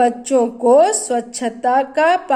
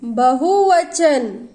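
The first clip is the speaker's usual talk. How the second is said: slow answer; much slower than usual. Shown as a demonstration. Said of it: "जब एक से अधिक रहता है तो".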